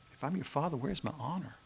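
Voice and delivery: a hint of soft, hurt lament; groaning Father. God the Father to his people, mildly hurt. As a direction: ask it quietly, wounded. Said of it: "I hear the Father groaning".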